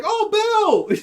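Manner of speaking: high, sing-out greeting; play-acted call across the room. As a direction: spot a colleague and hail him to escape. Acted official calling out to Bill.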